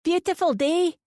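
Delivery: put-on high, sweet West Coast old lady voice; honeyed old lady. A narrator's reading. Old lady greeting a stranger, sweet and honeyed. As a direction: pour it out like honey. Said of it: "Her voice is like honey, her accent pure West Coast".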